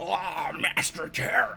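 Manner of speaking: raspy, deep, breathy, husky voice, low and whispered. Showing an attempt at the original Master Xehanort: Master Xehanort voice. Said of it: "how raspy and deep it is".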